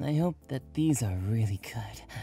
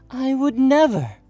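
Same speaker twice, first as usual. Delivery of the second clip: mock protest; 11 dB louder than usual.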